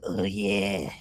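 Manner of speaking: low, drawn-out appreciative murmur; Gary. Retold or imitated. Podcaster mimics someone zooming in on a picture, low ogling voice. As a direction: say it low, lingering on the yeah. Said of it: "someone like Gary would zoom that up and be like".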